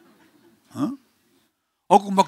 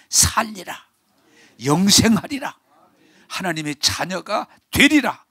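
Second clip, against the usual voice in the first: proclaiming; 4 semitones higher, 4 dB louder than usual. Acted. Proclaiming the gospel promise.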